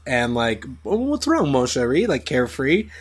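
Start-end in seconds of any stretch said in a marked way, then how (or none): 0.8-2.1 suave Gambit. Pretend. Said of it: "he can do that kind of, like, suaveness".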